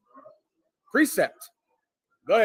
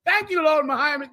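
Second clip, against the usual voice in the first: high-pitched play gratitude; hammed-up thanks in a high voice; mock grateful thanks; 8 semitones higher than usual. Feather eater thanks Lord Mahiman, high mock gratitude.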